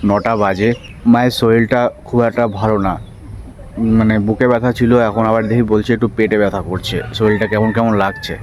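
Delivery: talking with a toothbrush in mouth; while brushing teeth. Real, not acted. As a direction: speak around the toothbrush. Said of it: "brush করতে করতে মাঠে থেকে vlog-টা start করছি".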